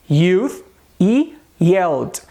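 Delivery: slow "youth" and "yelled", clear Y onset; consonant Y. Shown as a demonstration. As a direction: stretch out "youth" and "yelled" as model words. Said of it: "Veja qual é o som da consoante Y".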